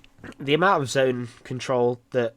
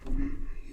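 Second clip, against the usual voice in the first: yawn; 4 dB quieter than usual. Real, not acted. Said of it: "why I'm yawning so much today".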